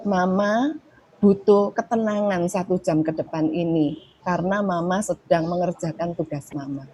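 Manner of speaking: put-on even, gentle explanation to a child; calm parent calmly stating a need; calm I statement. Shown as a demonstration. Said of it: "Jadi ini sebenarnya preventif".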